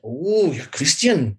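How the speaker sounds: badly imitated elderly German woman's accent. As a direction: put on a wobbly German accent, slowly. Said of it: "I'll stop doing the German accent".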